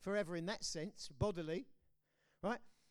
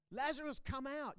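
a raised call into the tomb; calling Lazarus out; 7 semitones higher than usual. Acted. Jesus calling a dead friend from the tomb, raised. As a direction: call him out of the grave. Preacher voicing Jesus' command.

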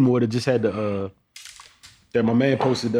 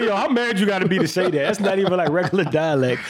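incredulous retelling; 5 semitones higher than usual. Retold or imitated. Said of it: "I said".

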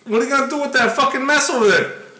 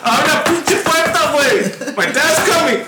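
a higher, put-on girlfriend voice; pregnant girlfriend voice; 4 semitones higher than usual. Girlfriend at the door announcing she's pregnant, higher voice.

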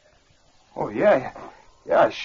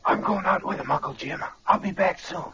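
lightly hoarse, subdued voice; faked hoarse voice; 4 dB quieter than usual. Impostor telling Uncle Jim he's going out, faked hoarse voice. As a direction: pretend to have a scratchy throat. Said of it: "It's hard to talk hoarse like that".

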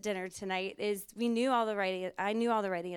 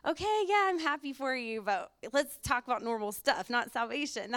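high, exasperated mock politeness; impatient inner thought; 4 semitones higher, 3 dB louder than usual. Woman tired of the salvation story, mock-polite impatience. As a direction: roll your eyes at it. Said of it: "I was thinking".

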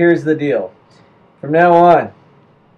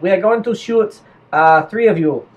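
deliberate mock German accent. German officer announcing punishment to Belgians, deliberate German accent.

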